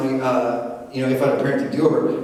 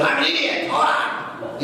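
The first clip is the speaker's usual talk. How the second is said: mock self-talk; 13 semitones higher than usual. Mocking his own stubbornness.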